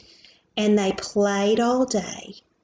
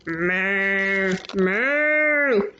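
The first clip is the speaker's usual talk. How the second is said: cow moo; 2 semitones lower than usual. Acted. Reading to child, mooing like the cow.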